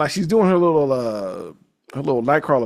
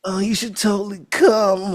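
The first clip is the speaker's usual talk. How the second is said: mock sultry Envy voice; 7 semitones higher than usual. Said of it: "Do the voice".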